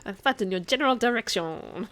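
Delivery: loud, put-on insulting voice; mock comic taunt. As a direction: taunt them loudly in a hammed-up voice. Acting out Monty Python insult.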